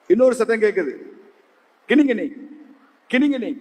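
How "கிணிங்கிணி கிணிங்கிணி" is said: high, quick tinkling bell sound; imitated bell jingle. Storyteller imitates the ice-cream cart's sound, high bell jingle. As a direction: chime the syllables like a little bell. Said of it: "அப்படின்னு சத்தம் கேக்குது".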